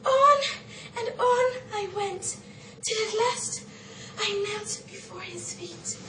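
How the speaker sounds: high, loud, effortful cries; anguished struggle. Acted. Woman struggling on toward Jesus, anguished. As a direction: push each phrase out in anguish.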